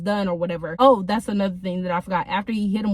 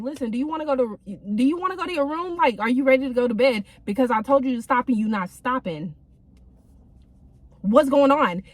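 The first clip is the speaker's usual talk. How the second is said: gentle reminder; 2 semitones higher than usual. Retold or imitated. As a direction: ask calmly, no threat in it. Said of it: "But I'm just like".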